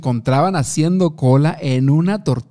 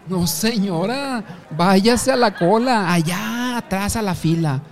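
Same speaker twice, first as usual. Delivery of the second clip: mock scolding; 5 semitones higher than usual. Woman in the tortilla queue rebukes a queue jumper, mock scolding. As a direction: send her off with stretched, high-pitched mock exasperation.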